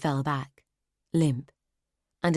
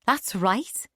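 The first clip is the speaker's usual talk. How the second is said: higher, brightened-up sudden agreement; surprised agreement; 7 semitones higher, 4 dB louder than usual. Acted. Clara to Nonna, surprised eager agreement. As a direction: caught off guard, then seizing it. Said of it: "Clara sounded surprised".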